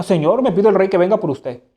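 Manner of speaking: Hamlet parrots Polonius with a little lift; mocking imitation. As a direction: echo his words back in mock imitation. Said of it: "Hamlet lo remeda". (Hamlet remeda a Polonio con burla)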